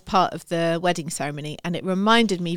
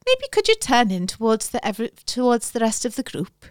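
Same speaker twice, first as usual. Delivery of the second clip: put-on Welsh accent; 3 semitones higher than usual. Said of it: "you do a brilliant Welsh accent".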